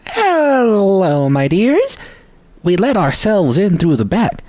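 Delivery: attempted southern accent. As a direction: put on a hammed-up southern belle voice. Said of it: "That's not a southern accent".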